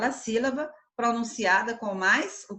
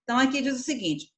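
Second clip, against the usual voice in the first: ordinary talk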